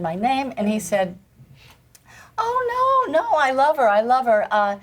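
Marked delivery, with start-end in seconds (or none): 2.4-4.8 mock the caught-out critic, high and flustered. Dancer imitating the critic caught out on the phone, high and flustered.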